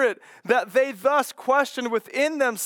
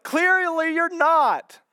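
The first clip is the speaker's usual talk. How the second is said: drawn-out, higher-pitched mock judgement; pointed put-down; 6 semitones higher, slower than usual. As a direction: stretch it out as a slow, condescending verdict. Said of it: "what we mean by that".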